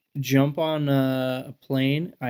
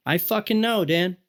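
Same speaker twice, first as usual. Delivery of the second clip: imitating exasperated mom; 7 semitones higher than usual. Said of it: "She's probably like".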